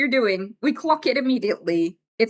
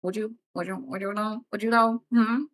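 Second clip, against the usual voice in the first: creepy fishing man. Retold or imitated. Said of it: "They always say it like".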